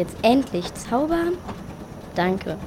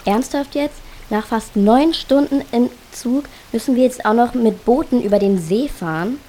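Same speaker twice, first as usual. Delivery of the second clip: louder, indignant complaint; exasperated; 3 semitones higher, 6 dB louder than usual. Acted. Tired pupil grumbling about boats after nine hours on the train, exasperated. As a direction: moan in loud disbelief at yet another chore.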